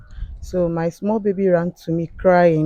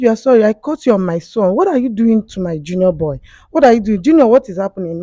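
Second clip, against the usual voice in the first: raised voice, louder, indignant questioning; retold angry confrontation; 4 semitones higher, 5 dB louder, faster than usual. Mother confronts house help over her junior boy, indignant scolding. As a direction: act out scolding her in disbelief.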